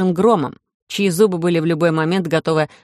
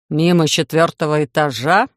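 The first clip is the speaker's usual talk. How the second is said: dry sarcastic lower question; mock the lame excuse sarcastically; 3 semitones lower than usual. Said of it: "Сарказма в тоне Титана было хоть отбавляй".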